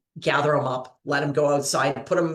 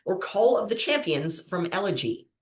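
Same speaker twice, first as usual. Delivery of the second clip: quiz host; 3 semitones higher than usual. Acted. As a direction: lay out the choices like a game-show host. Quiz host reads question.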